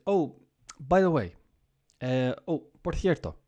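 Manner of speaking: breezy high offhand remark; casual afterthought. Retold or imitated. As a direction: toss it off like an afterthought. Boss quip at the door.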